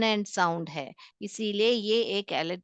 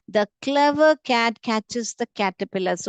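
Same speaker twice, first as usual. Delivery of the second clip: put-on teacher reading an example slowly for kids; slow, stressed k sounds; 4 dB louder, much slower than usual. Shown as a demonstration. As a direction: read very slowly, hitting each k in "clever cat catches the caterpillar". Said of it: "क, क आवाज आ रहा है".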